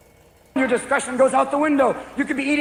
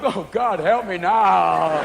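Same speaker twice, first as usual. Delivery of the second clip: stoned plea; 3 semitones lower, much slower than usual. Retold or imitated. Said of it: "you're inside stone going".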